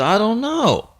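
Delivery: high, soft, a touch of tears; teary voice. Retold or imitated. Boy telling his dad he lost the dog, mildly teary. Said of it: "in a little bit of a teary voice".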